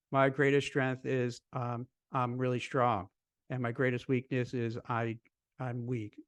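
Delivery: flat-paced robot answer, lightly played; robotic candidate. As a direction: imitate a stiff candidate reciting by rote. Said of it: "they just talk like this".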